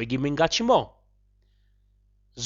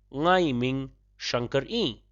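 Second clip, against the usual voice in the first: repeated slowly; slower than usual. Shown as a demonstration. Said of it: "I shall say that one more time".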